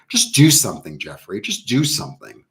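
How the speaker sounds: punchy, mock-impatient pep talk; exasperated self-urging. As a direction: urge yourself to stop doubting. Acted self-scolding against self-doubt.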